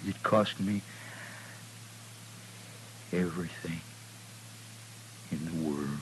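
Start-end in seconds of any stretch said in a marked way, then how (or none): 3.1-5.9 whispering. Acted. Dying man's last words.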